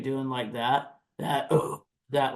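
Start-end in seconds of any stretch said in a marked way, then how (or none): 1.2-2.3 gritty rumbling breath; rumbling sigh demo. Shown as a demonstration. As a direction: push out a rough sigh. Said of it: "rumble you hear".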